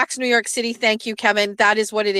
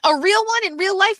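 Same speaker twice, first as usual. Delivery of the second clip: high, insistent re-enacted question; calling out; 9 semitones higher than usual. Wife pressing Jeff from the stairs, calling out.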